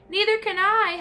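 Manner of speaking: high loud wail; howl. A narrator's reading. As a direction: howl in panic. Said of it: "howled Flitter".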